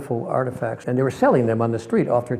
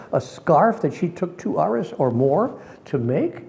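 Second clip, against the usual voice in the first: higher, slow, questioning himself; self reproach; 5 semitones higher than usual. Retold or imitated. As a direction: scold yourself in thought. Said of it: "and I thought".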